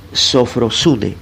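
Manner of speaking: "sofrosune" stretched out slowly, syllable by syllable; slow dictation. Shown as a demonstration. Preacher teaching the Greek word "sofrosune", very slowly. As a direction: drag out each syllable of "sofrosune". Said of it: "S O F R O S U N E".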